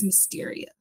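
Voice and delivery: "Mysteria", middle vowel close to "mystery"; pronounced like mystery. Shown as a demonstration. Author giving the technical title, "Mysteria" said like mystery. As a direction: say "Mysteria" as in mystery, with a short ih or ear sound. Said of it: "like mystery".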